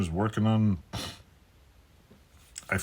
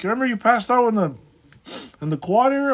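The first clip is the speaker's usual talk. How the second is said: put-on high, loud girly voice, much higher; imitating the girl; 7 dB louder than usual. Girl checking he got home, high voice. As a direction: ask like a concerned young woman.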